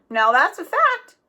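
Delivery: chuckling agreement; laughing. A narrator's reading. Road agent laughing at Jack's accusation. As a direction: laugh the words out. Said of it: "the man laughed".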